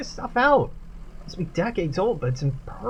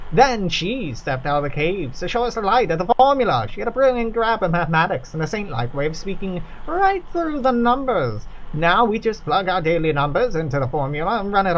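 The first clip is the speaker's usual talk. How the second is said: lightly voiced worker, awed by the formula; reverent factory worker. Worker telling visitors about the formula, reverent. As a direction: tell it like a sacred story.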